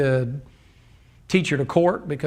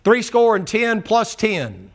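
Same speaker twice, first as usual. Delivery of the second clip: slow and deliberate; 6 semitones higher, slower than usual. Real, not acted. Preacher slowly counts out the slain to the congregation. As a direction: spell out each number slowly.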